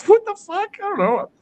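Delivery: mock bewildered reply. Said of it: "I'm like".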